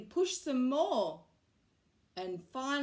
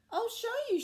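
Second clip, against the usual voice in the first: smiling; 13 semitones higher, 5 dB louder, faster than usual. A narrator's reading. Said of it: "she smiled".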